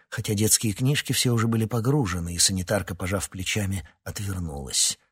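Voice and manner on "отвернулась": ordinary delivery, nothing marked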